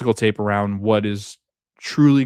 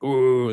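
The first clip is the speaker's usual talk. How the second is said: lightly imitated Chewbacca howl; a mild, drawn-out group "ooh"; 3 semitones higher, 3 dB louder than usual. Friends all doing a power-giving gesture, mock Chewbacca "ooh". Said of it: "they sound like Chewbacca".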